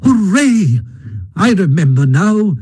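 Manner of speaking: high, joyful Mole exclamation; delighted cheer. A narrator's reading. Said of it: "cried the Mole delightedly".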